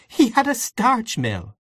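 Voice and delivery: high, drawn-out merry correction; amused protest. A narrator's reading. Aunt Kate correcting Gabriel's tale, amused. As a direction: correct him slowly in a high voice.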